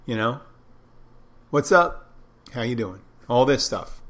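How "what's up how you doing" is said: put-on Jersey-Philly accent. Mimicking people from New Jersey and Philadelphia, Jersey-Philly accent. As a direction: toss out a mock New Jersey hello. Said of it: "New Jersey, Philadelphia region and stuff, and they always go".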